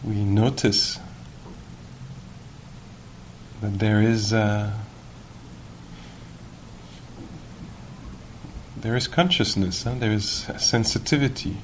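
measured guiding voice with long pauses; guided meditation. Real, not acted. Teacher guiding sitters to notice awareness, calm and unhurried. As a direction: lead them gently, leaving long silences.

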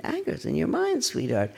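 high, gentle coaxing of sweetheart; tender self-soothing. Shown as a demonstration. Teacher speaking tenderly to her own angry mind. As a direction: soothe yourself like a child.

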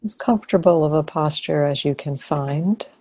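calm guidance with long pauses; guided meditation. Real, not acted. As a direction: guide them gently into posture, leaving long silences.

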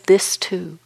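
softly repeated, fading to very quiet with pauses between; gentle acceptance. Acted. Meditation teacher voices open arms holding complexity, softly accepting. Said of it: "open arms that just says".

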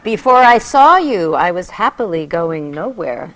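expressive poetry reading; poem reading. Acted. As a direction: read it like a sacred story. Reads a mystical poem aloud.

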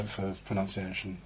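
ordinary talk

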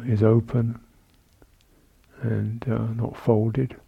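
calm, measured meditation guidance with long pauses; guided meditation. Real, not acted. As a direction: guide sitters gently through the body, leaving space between phrases. Leads a seated body-awareness meditation.

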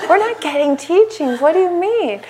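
high-pitched, exasperated protest; retold anger. Angry student objecting to her happy friend, high and exasperated. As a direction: act out indignant disbelief, pitch jumping up. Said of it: "I was so angry".

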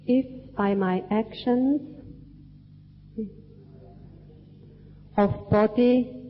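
slow, measured phrases for repeating; language lesson narrator. Real, not acted. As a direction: recite it line by line for the group to echo. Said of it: "say part of the sentence and you repeat after me".

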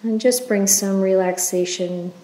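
unhurried, even-toned meditation leader; guided meditation. Acted. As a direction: guide listeners gently through the body, leaving space after each phrase.

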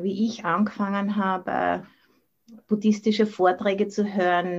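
ordinary talk

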